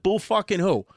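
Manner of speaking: a touch of scornful Brooklyn lady; Brooklyn mother. Retold or imitated. Friend's mom dismissing France's complaints, lightly mimicked scorn. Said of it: "real deal Brooklyn lady smoking cigarettes".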